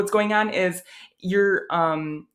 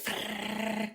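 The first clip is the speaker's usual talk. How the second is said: uvular trill sound; 4 semitones higher, 9 dB quieter than usual. Shown as a demonstration. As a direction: roll the r at the back of the throat. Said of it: "'cause you're going like".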